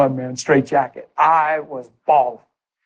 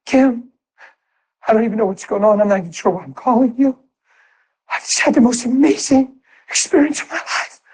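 excited phone call; 5 semitones higher than usual. Retold or imitated. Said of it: "I dialed the phone".

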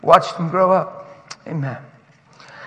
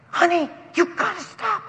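pleading dad; 9 semitones higher, 5 dB quieter than usual. Retold or imitated. Voices the girl's embarrassed dad.

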